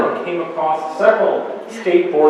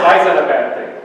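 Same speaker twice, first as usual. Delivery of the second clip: louder, putting the question to the room; raised-voice question; 2 semitones higher, 6 dB louder than usual. Real, not acted. Speaker quizzes audience on lost cursive, raised voice. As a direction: throw the question out loudly to the audience.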